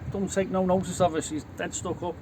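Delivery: Scouse banter between mates; chatty put-on Scouse accent. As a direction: imitate a Liverpudlian introducing the missus. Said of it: "he meets another Scouser".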